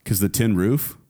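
slowly, deadpan reveal; slow punchline. Pretend. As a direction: drag out the punchline. Punchline from song lyric.

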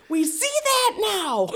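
high, slow deadpan officer; mock police deadpan; officer conceding the mistake; dry cop reply. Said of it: "they're like".

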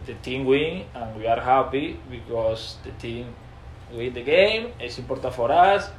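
put-on halting, clumsy Spanish-accented English; mock his own old beginner English; self-mocking broken English from a footballer. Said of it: "así".

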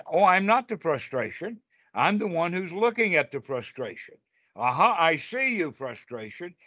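lifted, pleased discovery; bright realization. Shown as a demonstration. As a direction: greet the frustration like you've caught it out.

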